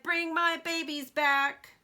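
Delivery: mother duck pleading with the fireman; pleading cry. Acted. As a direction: beg to get her babies back. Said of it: "she cried".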